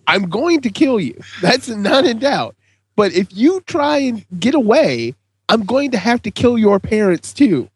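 a hint of a calm killer; creepy villain. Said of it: "the horribleness of telling a child".

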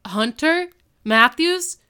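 high, loud, fast teacher yell; hammed-up shocked shout; mock shout. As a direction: yell at them like a startled teacher. Eli shouts at the boys.

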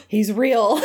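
gasped, half-laughing mock amazement; amazed realization. Recounting his bus sighting of Ethan Hawke, mock amazed. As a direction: play a stunned discovery through a laugh.

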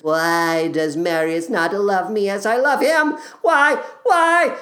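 high, hammed-up wail rising on each "Why?"; mock wailing. Eponine wandering Paris in tears, hammed-up wail. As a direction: overplay a heartbroken girl crying out "Why?". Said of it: "shedding an ocean of tears".

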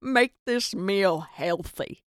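a put-on dinner blessing; mock grace. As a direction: say an imitation grace, starting strong and settling into the amen. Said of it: "kinda weird to be like".

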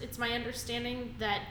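normal talking voice

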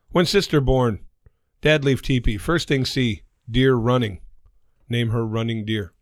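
measured phrases in a put-on Native American accent; mock Native American accent. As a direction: joke father's stilted Native American accent. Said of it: "Sorry about the accent".

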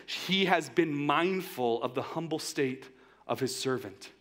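reads "mindful" slow and deliberate, word by word; slow scripture reading. Shown as a demonstration. Pastor reading the verse to the congregation, slow and weighty. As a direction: lets each word of the verse land. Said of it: "Verse forty-eight says this".

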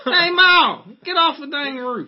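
high, loud hick yell; redneck holler. Pretend. Hick calling to mother.

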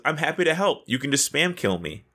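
imitating overly helpful politeness; fake nice. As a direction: make a mock-sweet, insincere offer. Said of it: "trying to be so nice and so fake".

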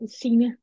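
"Sina" as its native speaker says it; correct native pronunciation. Shown as a demonstration. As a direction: say your own name "Sina" the native way. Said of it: "how is it actually pronounced".

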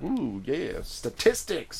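high, slow gushing ooh; excited. Retold or imitated. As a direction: drool over the numbers. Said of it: "I'm like".

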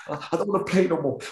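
put-on a milder replay of the child's sulk. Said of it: "I was like a big baby".

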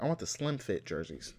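mock athlete's voice, slightly hushed; LeBron. Host imagines the player asking for tighter jerseys, mock LeBron voice. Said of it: "why I give LeBron that voice".

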